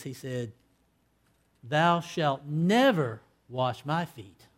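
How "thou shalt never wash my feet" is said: slow, every word weighed, stress on never; great emphasis. Retold or imitated. Peter refusing Jesus at the foot washing, slow with heavy emphasis on never. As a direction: hammer out never slowly. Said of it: "with great emphasis".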